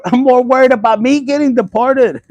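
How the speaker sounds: joking outburst. Real, not acted. Vlogger joking to viewers about being deported. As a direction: throw the punchline out with a laugh.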